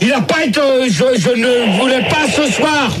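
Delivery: high-pitched stubborn objection; irritated protest. Real, not acted. Host refuses the operator tonight, irritated protest. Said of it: "t'es énervé d'office".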